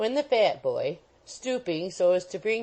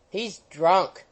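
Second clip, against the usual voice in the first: mild roar; 3 dB louder than usual. Acted. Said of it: "roared old Wardle passionately".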